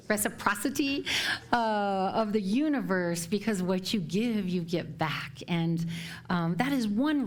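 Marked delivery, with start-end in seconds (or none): 0.1-1.0 reciprocity, said carefully the second time after a stumble; stumbling over a word. Real, not acted. Minister correcting her own stumble over reciprocity. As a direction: get reciprocity right on the retry. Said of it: "I challenge with this word".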